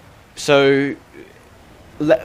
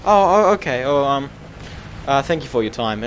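flustered lady; 3 semitones higher than usual. Retold or imitated. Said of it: "She's like".

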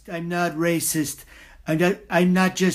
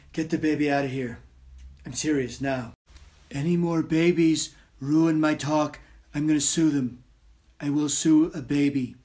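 full Trump impression. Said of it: "Donald Trump impersonation".

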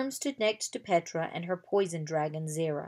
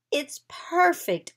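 high, louder, drawn-out exclamation; delighted cry; 8 semitones higher, 5 dB louder, slower than usual. A narrator's reading. Anna sees the carriage made from her drawing, crying out delightedly. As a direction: stretch it out with excited delight. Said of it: "Anna cried".

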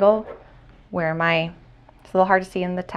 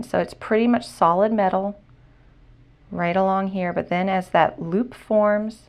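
muffled behind a mask; talking through a dust mask; through a face mask. Real, not acted. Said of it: "I'll try to talk through the mask".

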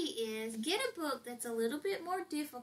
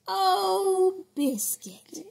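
louder, higher oh then Biscuit; mock alarm; 7 semitones higher, 7 dB louder, much slower than usual. Mom reading the piglet's escape, alarmed. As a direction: gasp in storybook worry.

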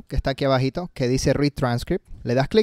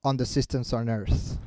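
slow, soft echo of a speaker; imitating the video speaker; 3 semitones lower, 9 dB quieter, slower than usual. Shown as a demonstration. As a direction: repeat it carefully, softly and slowly. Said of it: "tienes que imitar lo que él hace". (imitando al orador, lento y bajo)

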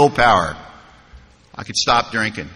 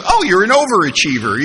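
sponsor grinning; 5 semitones higher than usual. Retold or imitated. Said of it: "big smile on his face".

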